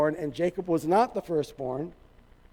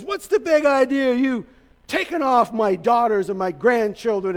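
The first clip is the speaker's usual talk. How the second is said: mock outrage, pitched up at first; furious father-in-law; 3 semitones higher, 3 dB louder than usual. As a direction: act out an indignant confrontation. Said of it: "and he's furious".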